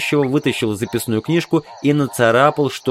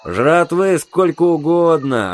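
higher, drawn-out sigh of relief; relieved; 5 semitones higher, slower than usual. Acted. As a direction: let the relief stretch the words out. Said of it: "облегчённо вздохнул сержант". (с облегчением, нараспев)

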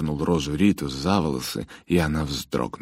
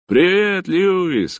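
high, loud happy greeting; cheerful call; 9 dB louder, much slower than usual. Acted. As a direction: call out across the yard. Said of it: "крикнул он".

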